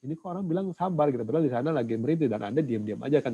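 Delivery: a touch of exasperated disbelief; retold indignation. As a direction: retell an upset husband's incredulous complaint. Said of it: "Apa nggak emosi saya".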